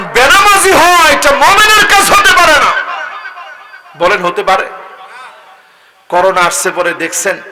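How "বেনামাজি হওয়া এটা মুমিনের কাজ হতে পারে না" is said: high, loud declaration; full-force preaching. Real, not acted. Preacher admonishing those who skip prayer, high forceful declaration. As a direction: ring it out high to the congregation.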